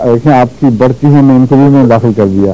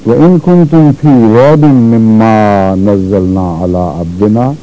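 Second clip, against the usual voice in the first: measured recitation, long held vowels, falling in pitch; Quran recitation; 2 semitones lower than usual. Shown as a demonstration. Teacher reciting the verse, sustained recitation.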